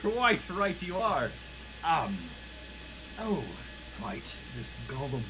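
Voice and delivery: chuckle, then draw it out high; chuckling old scientist. Acted. Old man answers the prodigal son, chuckling and high. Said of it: "he chuckles and he goes".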